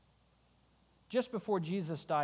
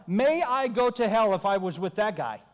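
cursing denial; 2 semitones higher, 5 dB louder than usual. Acted. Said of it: "calls down curses on himself".

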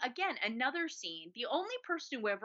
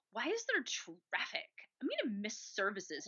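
put-on kvetch lightly like an old Jewish lady; old Jewish lady accent. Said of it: "your old Jewish lady accent".

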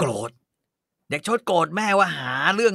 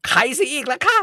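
market vendor rant; 8 semitones higher, 3 dB louder than usual. Acted. Mother rants like market vendor.

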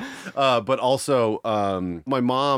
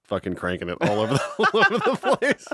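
mock appeal to mom; 3 semitones higher than usual. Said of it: "Look, Sharon".

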